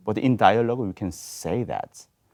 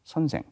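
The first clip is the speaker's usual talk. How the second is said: 선생 said level, 선 and 생 equal; even Seoul 선생 with no accent; no syllable stress; 6 semitones higher, much faster than usual. Shown as a demonstration. Diction teacher showing the panel the even Seoul 선생 without stress. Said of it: "we do not add for any accent in it".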